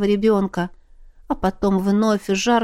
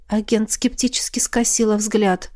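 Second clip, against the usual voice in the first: ordinary delivery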